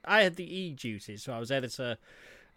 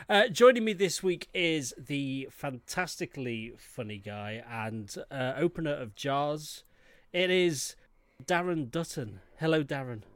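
gurgling. Real, not acted. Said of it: "Are these gurgles I'm doing really obvious?".

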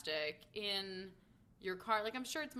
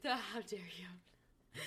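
mock offended whisper; 2 semitones lower, much slower than usual.

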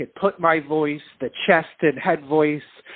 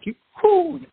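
cracking voice; 14 semitones higher than usual. Retold or imitated. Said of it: "I was like".

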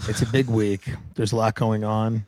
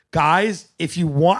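motherly pilot; 4 semitones higher, slower than usual. Retold or imitated. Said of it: "like a mother".

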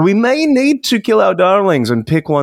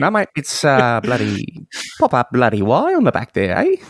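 put-on Australian accent. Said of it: "sounding like an Australian person doing an Australian accent".

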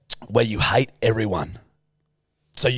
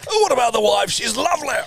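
posh English ghost; 13 semitones higher than usual. Acted. Posh English ghost pleads for the lovely wife. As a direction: shriek it like a prim old ghost. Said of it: "posh English ghosts".

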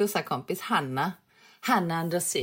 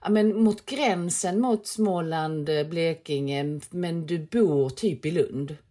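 quoting the clerk; slower than usual. Retold or imitated. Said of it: "Han bara".

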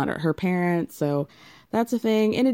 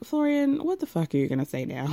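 exasperated wife; 2 semitones lower than usual. Retold or imitated. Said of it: "She's like".

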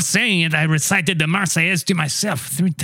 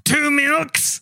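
a waiter who can't believe the order, high and disbelieving; incredulous; 10 semitones higher than usual. Acted. Waiter to Churchill about his milk order, incredulous and high. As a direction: pitch jumps much higher on Two.

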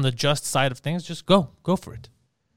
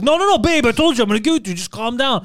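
pleading to calm her; 5 semitones higher, 3 dB louder than usual. Pretend. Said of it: "you're gonna be like".

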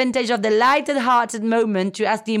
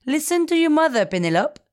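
proud mother; 5 semitones higher than usual. Retold or imitated. Daughter imitating her proud mother, lightly voiced. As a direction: lightly voice mom's know-it-all pride. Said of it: "says it really proudly".

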